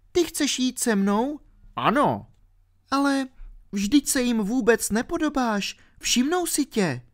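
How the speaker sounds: put-on a ten-year-old girl explaining herself. A narrator's reading. Alenka explaining to R why she fell asleep, girlish.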